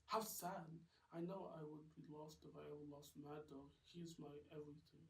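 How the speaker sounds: lightly voiced sweet girlfriend; a hint of a swooning girlfriend; Rose, lovestruck. Girlfriend telling Mad Dog he is everything, lightly voiced.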